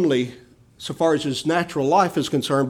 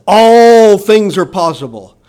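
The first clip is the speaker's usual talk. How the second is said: loud proclamation; 3 semitones higher, 9 dB louder than usual. Acted. Preacher proclaims the promise.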